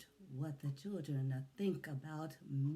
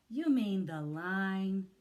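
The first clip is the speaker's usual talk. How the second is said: mock yell; 6 dB louder, slower than usual. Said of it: "we yell".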